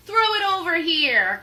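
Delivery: loud, high eager order; cry. Acted. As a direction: demand the treasure. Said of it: "cried Captain".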